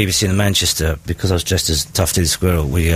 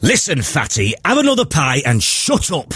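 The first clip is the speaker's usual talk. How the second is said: gruff Gene Hunt; 7 semitones higher than usual. Acted. Gene Hunt style insult.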